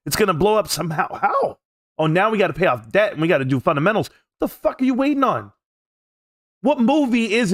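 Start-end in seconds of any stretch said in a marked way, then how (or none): 2.0-4.1 mocking paraphrase. Mocking the other's excuse.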